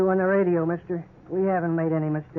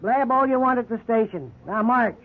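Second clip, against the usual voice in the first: louder, harsh brush-off; gruff scorn; 3 semitones higher, 4 dB louder than usual. Acted. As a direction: bark it at the suspect. Cop scoffs and orders march.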